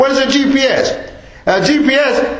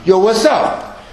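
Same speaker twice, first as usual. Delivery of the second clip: casual slang greeting, mocking the youth; lightly voiced young guy on the street; slower than usual. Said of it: "That's how they walking".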